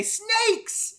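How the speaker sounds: high, loud comic yell; yelled warning. Acted. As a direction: yell it out like a silly battle cry. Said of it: "throw noodles at them and say".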